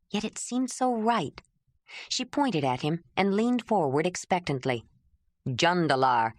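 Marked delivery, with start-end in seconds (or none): 5.5-6.3 a hint of a lower man's voice introducing himself; lower, plain introduction; lightly voiced Jondalar. Jondalar says his name.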